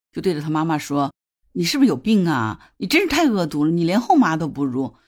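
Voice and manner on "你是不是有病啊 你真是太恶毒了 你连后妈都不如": mildly heated, slightly raised voice; retold angry outburst. Son snapping at his mother over ruined artwork, mildly angry retelling. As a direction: imitate a son lashing out, held back. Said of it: "他儿子瞬间也就急了嘛".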